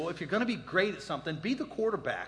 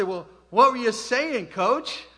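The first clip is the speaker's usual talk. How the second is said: eager question; 5 semitones higher, 9 dB louder, slower than usual. Retold or imitated. Eager kid asking coach.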